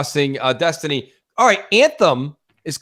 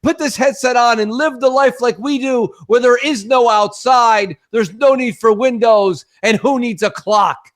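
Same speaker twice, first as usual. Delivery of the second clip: mock tech evangelist; 6 semitones higher than usual. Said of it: "Facebook and everybody".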